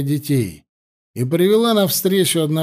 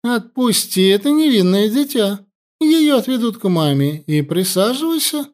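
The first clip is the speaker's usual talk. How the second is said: commanding; 7 semitones higher than usual. A narrator's reading. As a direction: command like a queen. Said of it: "Властными интонациями потребовала принцесса".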